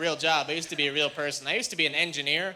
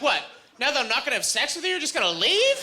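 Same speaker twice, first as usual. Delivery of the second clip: mock outrage; 7 semitones higher than usual. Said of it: "I was like".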